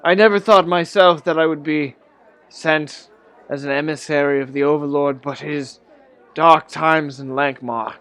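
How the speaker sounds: put-on a weary old man recounting his journey; lightly voiced old man recounts his shipwreck; old man storyteller. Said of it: "It's like".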